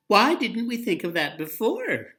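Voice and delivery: high, loud gleeful question; bubbling with delight; chortling glee. Acted. Winnie delighted with her friends, high and chortling. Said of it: "chortled Winnie".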